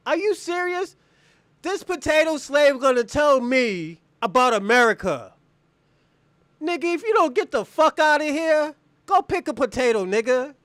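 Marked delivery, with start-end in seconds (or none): 1.6-10.5 loud heated tirade; angry yelling. Real, not acted. Streamer angrily yelling at his opponent to get out. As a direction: tear into him at full volume.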